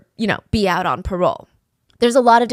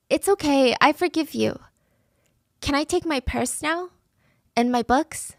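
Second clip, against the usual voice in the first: comforting; 5 semitones higher than usual. Retold or imitated. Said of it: "comforting her own attacker".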